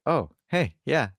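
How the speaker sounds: high-pitched mock-innocent questioning; Gentile. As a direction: play an unsure manager stalling for answers. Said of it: "And then Gentile is like".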